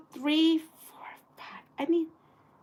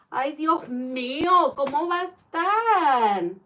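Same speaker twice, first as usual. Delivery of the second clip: whimpering despair. Real, not acted. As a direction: whimper it like you might cry. Despair over missing fabric.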